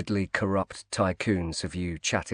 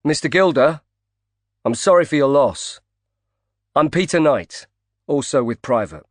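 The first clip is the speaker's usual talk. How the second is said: raised, carrying voice across the bar; loud enough to hear; 3 semitones higher, 4 dB louder than usual. Acted. Knight calls across the bar to Gilder, raised voice. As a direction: call over so the man at the bar hears. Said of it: "Knight said loud enough for Gilder to hear".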